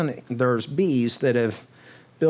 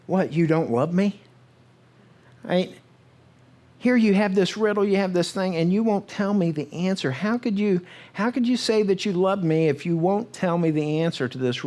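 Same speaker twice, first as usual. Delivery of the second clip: high, mock tearful pleading; pleading wife; 5 semitones higher than usual. Wife pleading with Samson for the riddle, high mock tearful whine. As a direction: whine it like a hurt fiancee. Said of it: "she's crying".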